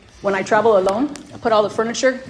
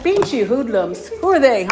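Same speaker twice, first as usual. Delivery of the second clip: lightly voiced busybody peering at the car; nosy senora; 3 semitones higher, 6 dB louder than usual. Woman at the airport eyeing a loud car, mock nosy. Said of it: "I'm being all nosy, senora right there".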